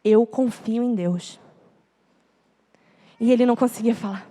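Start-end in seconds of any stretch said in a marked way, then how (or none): 0.0-1.4 deliberate prompting. Retold or imitated. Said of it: "Fala comigo".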